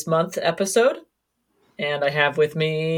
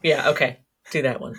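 ordinary talk

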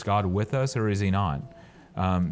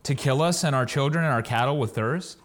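raised, higher pitched grumbling; complaining crowd; 6 semitones higher than usual. Acted. The thirsty people griping at Moses, raised and complaining. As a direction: whine it at Moses like a parched crowd. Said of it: "the people murmured against Moses and said".

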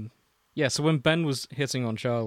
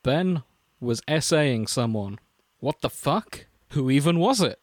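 mock-dramatic read of a story; dramatic fanfic reading; 3 dB louder than usual. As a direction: read it like a melodrama.

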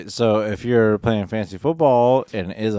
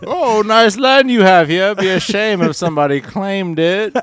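mock menace; 10 semitones higher, 7 dB louder than usual. Mock colonizer menace joke.

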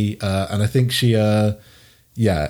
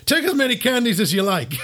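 sweet host voice; 11 semitones higher, faster than usual. Acted. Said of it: "And he's like".

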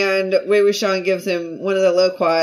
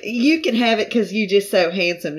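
put-on Southern accent. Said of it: "it being a Southern accent".

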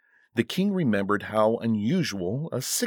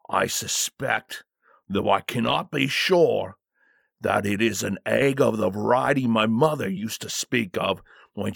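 lightly voiced guard, measured and portentous; hint at danger with careful deference; wary bodyguard. Bodyguard recalling his mother's warning, lightly ominous. Bodyguard explains the sinister egg.

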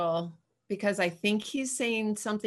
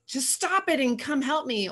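mock impatient parent; 6 semitones higher than usual. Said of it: "I was more inclined to be like".

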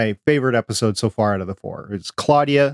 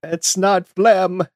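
slow mock character line; 8 semitones higher, much slower than usual. Quoting a show line.

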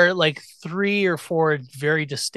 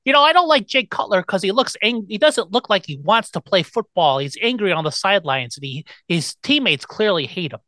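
Chicago caller; 3 semitones higher than usual. Retold or imitated. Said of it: "stuff like that".

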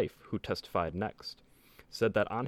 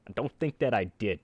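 put-on Italian accent. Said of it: "the speaker in an Italian voice".

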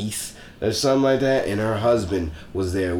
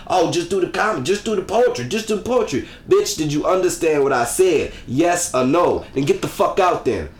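mildly raised, higher mock rant; retold blowup; 4 semitones higher than usual. Comic retelling how he went off on chatty audience. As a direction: replay the tirade, pitched up, half in earnest. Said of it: "Went off".

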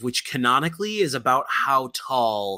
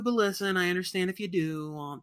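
movie announcer voice; 8 semitones higher than usual. Acted. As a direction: boom it like a film trailer. Mock pressure, movie voice.

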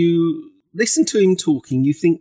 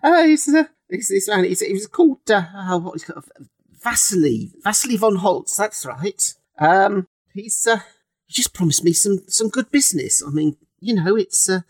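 Monty Python voice; 3 semitones higher than usual. Acted. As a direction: play the coffin maker like a Monty Python sketch. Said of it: "I've got a bit Monty Python".

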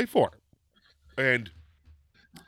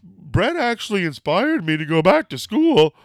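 high, loud, earnest fangirl imitation; hammed-up girlish testimonial; gushing movie fan; 6 semitones higher, 5 dB louder than usual. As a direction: imitate an overexcited fan in a documentary. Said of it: "I know I sound like that girl".

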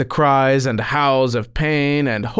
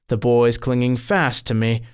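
ordinary delivery

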